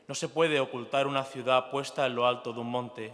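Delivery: Gospel reading. Acted. Priest reads the Gospel.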